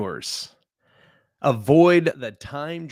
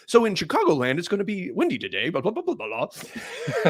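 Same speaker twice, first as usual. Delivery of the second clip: mock newscaster; 5 semitones higher than usual. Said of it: "literally on the news".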